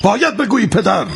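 angry threat. Acted. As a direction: threaten the boy harshly. Father threatens defiant boy.

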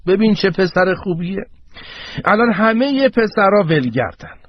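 lightly voiced old man chiming in. Old man heckles in the scene. (صدای زیرتر پیرمرد)

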